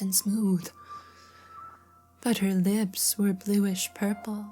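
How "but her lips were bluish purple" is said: measured storybook narrator; story narration. A narrator's reading. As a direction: read the tale aloud with care. Reads story aloud.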